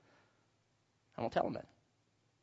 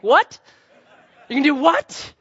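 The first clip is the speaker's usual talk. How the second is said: high, loud "what?"; shocked girlfriend; 9 semitones higher, 8 dB louder, slower than usual. Retold or imitated. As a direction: play her disbelief.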